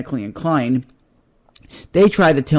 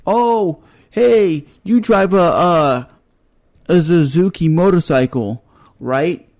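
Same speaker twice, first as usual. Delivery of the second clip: high, bright mock pitch of a pushy mechanic; mocking a scammy mechanic in a high voice; mock salesman; 3 semitones higher, slower than usual.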